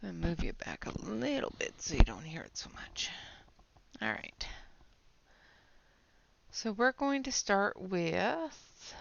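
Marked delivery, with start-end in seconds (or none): 0.0-4.5 whispering. Real, not acted. Whispers aside while out of breath.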